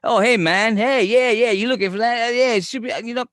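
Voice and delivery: high, loud Boston guy; thick Boston accent. Acted. Store clerk greeting a customer looking for caulk, thick Boston accent. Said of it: "got this real thick Boston accent".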